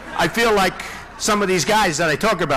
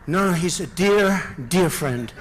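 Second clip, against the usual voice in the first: mock sweetness; 3 semitones lower than usual. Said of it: "Then they said to Rubio".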